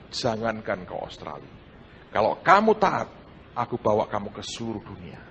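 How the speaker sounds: low, soft and solemn; a hushed divine command, spoken low; God's quiet command. Acted. God telling the preacher in prayer not to leave, low and hushed.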